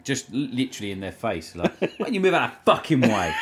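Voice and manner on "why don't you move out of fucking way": laughing, louder mock shout; mock aggressive. Mocking him yelling at people in the entrance, laughing. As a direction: shove it out half laughing. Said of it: "you're proper aggressive".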